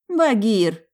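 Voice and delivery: sharp reproachful call of the name; a wife calling his name in mock reproach; displeased call. A narrator's reading. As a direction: scold him by name, loud and high. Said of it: "недовольно покачала головой женщина".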